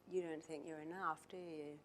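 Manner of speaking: very soft and gentle, almost under the breath; quiet gentle question. Retold or imitated. To the unhappy celebrity, a hushed knowing question. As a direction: ask it softly, like you already know.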